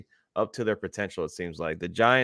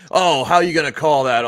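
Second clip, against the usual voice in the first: whiny complaint; 6 semitones higher, 6 dB louder than usual. Retold or imitated. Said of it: "he was like".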